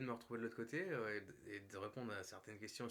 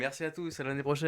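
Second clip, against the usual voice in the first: laughing; 3 semitones higher, 13 dB louder than usual. Real, not acted. Laughing sign-off.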